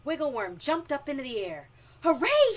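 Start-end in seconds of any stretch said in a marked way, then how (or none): 2.0-2.6 very loud, high cheer; overjoyed storybook whoop; jubilant shout. A narrator's reading. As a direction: cheer at the top of your voice. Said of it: "he shouted".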